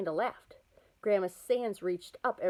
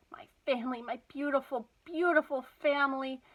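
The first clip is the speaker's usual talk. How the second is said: put-on Southern accent; 5 semitones higher than usual. A narrator's reading. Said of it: "except with a Southern-style accent".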